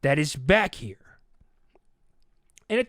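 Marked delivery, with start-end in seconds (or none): 0.0-1.2 low, slow, heated with a little gravel; firm, measured refusal with a gravelly edge; low and deliberate, getting a little heated. Retold or imitated. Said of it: "there's a little gravel in my voice".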